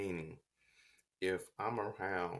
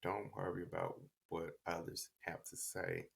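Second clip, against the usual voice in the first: soft, lightly voiced motherly reassurance; quiet, understated parental counsel; mother's advice; 5 dB quieter than usual. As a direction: retell a mother gently settling her son. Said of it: "she just told me".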